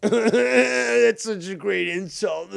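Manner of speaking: loud, high-pitched laughing through the words; laughing hard. Real, not acted. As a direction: crack up while slowly getting the words out. Laughs at the played insult.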